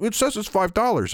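high-pitched imitation of an insistent old woman; complaining old lady. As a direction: whine it up high as the lady customer. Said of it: "And she's like".

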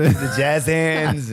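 slow, drawn-out theatrical jazz hands; spooky. Pretend. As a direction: ham it up, very slow. Mimicking jazz hands act.

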